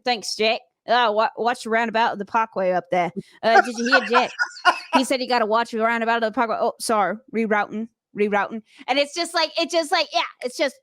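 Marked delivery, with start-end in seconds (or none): 0.0-8.6 lightly put-on Aussie accent; Australian accent. Driver echoing the GPS to boyfriend, casual imitation Australian accent. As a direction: imitate an Australian in your own register. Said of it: "talking in Australian accents nonstop".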